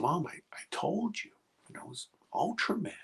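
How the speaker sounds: put-on high, soft child voice; boy insisting to his mom, high and hushed; small boy pleading. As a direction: plead like a scared little boy.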